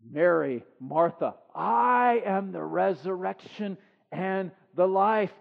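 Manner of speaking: slow, measured Jesus voice; Jesus declaring. Acted. Jesus to the sisters, slow and solemn. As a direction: declare it slowly and deliberately. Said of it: "He raises Lazarus".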